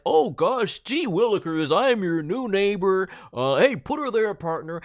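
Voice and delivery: chirpy folksy neighbor greeting; golly-gee friendly neighbor; eager neighbor voice. Shown as a demonstration. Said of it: "Instead of the, like".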